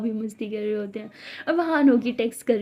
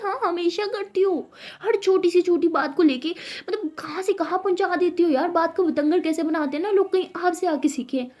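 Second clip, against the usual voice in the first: higher, complaining; exasperated complaint; 6 semitones higher than usual. Acted. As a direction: vent the frustration. झगड़े में तंज़. (झुंझलाकर शिकायत)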